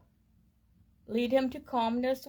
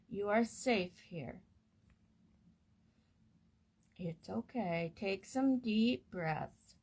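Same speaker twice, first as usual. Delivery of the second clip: low and slow. Shown as a demonstration. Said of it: "speak lowly and slowly in her ear".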